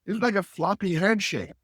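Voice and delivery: a hint of a puzzled young man explaining himself; voicing the student.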